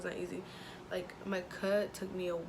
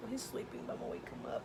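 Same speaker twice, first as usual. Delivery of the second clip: breathy whisper by the crib; quiet at night; 4 semitones higher, 6 dB quieter, faster than usual. Real, not acted. Baby asleep, whispering.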